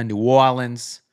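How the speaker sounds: put-on slow, drawn-out Cajun accent. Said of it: "that was a terrible Cajun accent".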